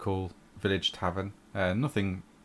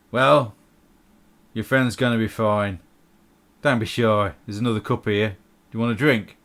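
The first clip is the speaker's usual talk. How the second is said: a louder, friendly tavern host offering a drink; gruff barkeep; 5 dB louder than usual. Acted. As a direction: boom out a welcome to the shy wizard. GM voices NPC offering drink.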